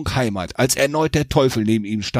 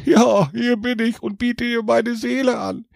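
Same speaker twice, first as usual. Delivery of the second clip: much higher, whiny pleading voice; whining Jack; 9 semitones higher than usual. A narrator's reading. Jack offering his soul to the devil, whining. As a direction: whimper the offer pitifully. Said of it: "Jack jammerte".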